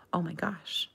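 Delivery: soft unvoiced practice; whispered demo. Shown as a demonstration. Teacher softly repeating the phrase back. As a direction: whisper oh my gosh to yourself. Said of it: "Very good".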